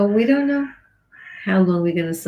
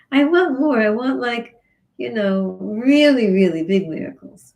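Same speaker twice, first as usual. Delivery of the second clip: greedy demand; 3 semitones higher, 3 dB louder than usual. Acted. People demanding more miracles.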